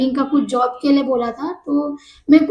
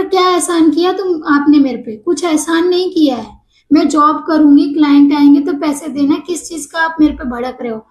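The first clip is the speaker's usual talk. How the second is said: raised, indignant comeback to the boss; heated retort. Retold or imitated. She retorts to her angry boss. (बॉस को ऊँची, गुस्से भरी आवाज़ में जवाब)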